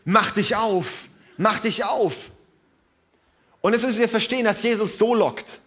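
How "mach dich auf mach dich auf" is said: slow, coaxing tender call; the groom coaxing his bride; luring softly. Acted. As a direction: lure her gently with love. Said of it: "er lockt sie und sagt".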